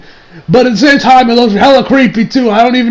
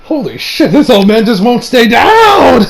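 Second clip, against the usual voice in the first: shocked disbelief, building to a drawn-out cry; slow, exasperated amazement at the end; Beerus; 3 semitones higher than usual. Retold or imitated. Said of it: "Even Beerus was shocked".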